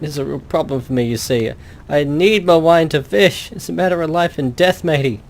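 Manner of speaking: a hint of a grumpy drunk sailor; mild old seadog calling people matey; lightly voiced old fisherman. Old fisherman to the adventurer, a lightly voiced drunk sailor.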